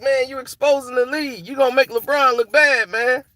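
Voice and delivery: high, lightly voiced whispering wind; a hint of a teasing wind in his ear. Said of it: "basically saying that in my ear".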